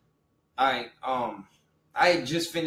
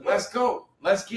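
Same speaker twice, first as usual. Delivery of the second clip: raised, louder hype call; hyped cheer; 6 semitones higher, 4 dB louder than usual. Real, not acted. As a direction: fire the room up. Hyping up a friend's news.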